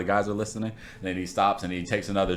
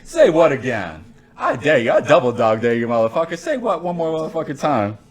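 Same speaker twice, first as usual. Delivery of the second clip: menacing movie threat; 5 semitones higher, 4 dB louder than usual. Retold or imitated. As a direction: lean in and threaten. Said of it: "Is that the English or what".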